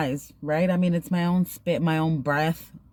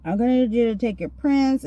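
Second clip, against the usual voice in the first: raised-pitch imitation of a rude officer; imitated rude demand; 5 semitones higher than usual. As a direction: mimic a curt, rude official. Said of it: "And she was so rude".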